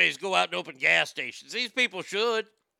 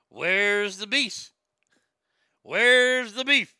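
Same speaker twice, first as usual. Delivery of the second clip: put-on old lady; 4 dB louder, much slower than usual. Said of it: "Little old lady walks up to the counter and goes".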